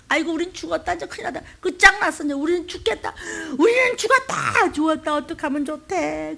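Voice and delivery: high panicked clamour; wailing crowd. Retold or imitated. Israelites at the Red Sea wailing in panic. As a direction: wail that all is lost. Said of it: "아우성을 치고".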